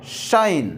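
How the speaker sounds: शाइन opening on a clear SH; teacher's careful शाइन, falling at the end; SH sound demo. Shown as a demonstration. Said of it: "इसका उच्चारण क्या हो गया?".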